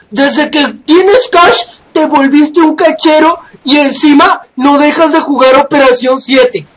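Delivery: slow sneering imitation of a hater; mocking critic voice. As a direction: draw it out like a whiny hater. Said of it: "hay un montón de gilipollas que". (voz burlona de un criticón)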